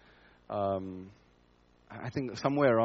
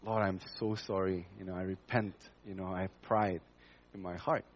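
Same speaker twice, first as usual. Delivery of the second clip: repentant prayer; 4 semitones lower, 5 dB quieter than usual. Retold or imitated. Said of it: "And I said".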